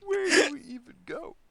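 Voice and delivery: high, laughing question. Pretend. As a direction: ask it through laughter. Skit, laughing while asking.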